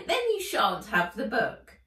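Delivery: high, loud squeaky elf voice; greedy elf. Acted. Elf haggling with Nat, high and loud. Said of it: "The elf cackled".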